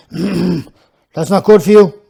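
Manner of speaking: slow, sober warning. Acted. Old man warning the smoking boy, slow and sober. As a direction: say it gravely and slowly. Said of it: "in a sober tone".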